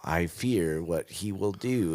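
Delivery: whispered, hushed Yoda impression. Host imitating Yoda's grave warning, whispered. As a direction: breathe it like wise old Yoda. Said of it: "Yoda's like".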